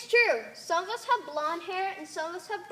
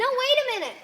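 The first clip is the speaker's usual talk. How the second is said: loud, high urgent cry; a frightened shout to halt them; alarmed protest; 9 semitones higher, 7 dB louder than usual. Acted. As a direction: stop them in a panic. Protest against being turned blue.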